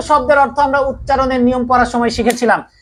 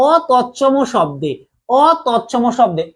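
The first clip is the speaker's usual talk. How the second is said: slow emphasis; slower than usual. Shown as a demonstration.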